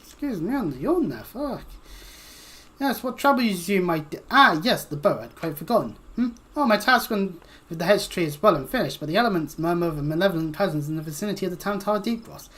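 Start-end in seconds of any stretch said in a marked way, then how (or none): 2.8-12.5 lightly voiced absent-minded sage, fussy and formal; a hint of a wizard who lost his train of thought; mildly voiced archaic scholar excusing himself; distracted old scholar. Reads scholarly NPC aloud.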